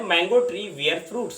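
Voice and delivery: very slow, word by word; slow example reading. Shown as a demonstration. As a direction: dictate the sentence slowly. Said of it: "अगला sentence है".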